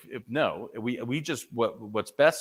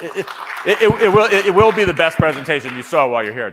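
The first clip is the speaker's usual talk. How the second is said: much higher and louder, rushed, mock-grand promise; joking boast; 7 semitones higher, 11 dB louder, faster than usual. Speaker jokes to the audience in a much louder, higher, rushed mock boast. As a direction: oversell it like a carnival barker.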